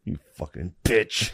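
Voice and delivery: soft, slow private swearing; muttered insult. Retold or imitated. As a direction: mutter it slowly under your breath.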